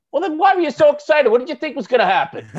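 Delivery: high, loud disbelief; exasperated. Real, not acted. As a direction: scoff at the hypocrites. Exasperated retort to fake fans.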